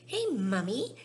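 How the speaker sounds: loud demanding call; shout. Acted. Veruca calling her mother, shouting. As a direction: yell for Mummy. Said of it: "shouted Veruca Salt suddenly".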